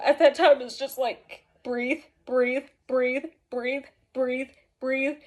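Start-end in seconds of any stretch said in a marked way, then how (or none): 1.6-5.2 evenly spaced, measured repetition; steady one-word beats with small gaps; coaching breaths. Retold or imitated. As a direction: imitate someone talking a panicker down. Principal coaching her through panic.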